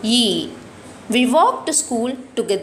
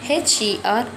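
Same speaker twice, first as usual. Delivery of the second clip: spelled out. Shown as a demonstration. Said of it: "you have to write is the pronoun is her".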